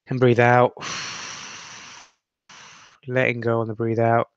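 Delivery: steady meditation guide, long pauses between phrases; guided meditation. Acted. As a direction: lead them through breathing, leaving space after each instruction.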